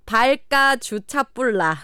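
slow Gyeongsang dialect quiz phrase; 경상도 사투리. Shown as a demonstration. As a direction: present the Gyeongsang phrase slowly for listeners to guess. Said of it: "그래서 이거 무슨 뜻인지 아시냐고요". (천천히 들려주는 경상도 사투리)

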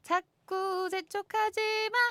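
slow, high teasing drawl; slow mock plea; drawn out. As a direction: stretch it out lazily. Radio host stretches the theme line.

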